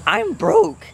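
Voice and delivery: high laugh breaking into the words. Real, not acted. Laughing to viewers about being broke. Joking about having no money.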